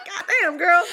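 put-on high laughing "God damn, girl"; amused teasing exclamation. Reacting to Zoe's panic clip, high laughing tease. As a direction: tease her through laughter. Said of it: "And I was like".

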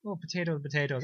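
soft Irish accent warm-up; quiet practice run at an Irish accent; mock Irish accent. Shown as a demonstration. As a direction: find the Irish accent on stock words. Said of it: "Do you wanna try again?".

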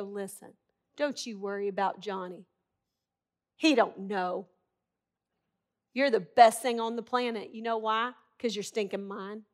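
gently buck up a hurt little one; parent reassuring child. Acted.

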